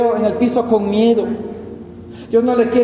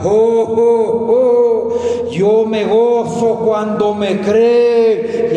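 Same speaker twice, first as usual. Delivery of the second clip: slow, louder, rejoicing voice of the Father; joyful voice of God; 2 semitones higher, 4 dB louder, much slower than usual. Retold or imitated. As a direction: draw it out as God delighting in belief. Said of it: "la voz del Padre que con gozo decía". (la voz gozosa del Padre, lenta y más fuerte)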